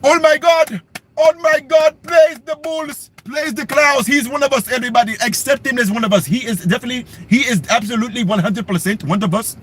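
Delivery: half-sung mock praise; mock celebration. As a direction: play an overjoyed crowd welcoming him. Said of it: "what you think they gonna do".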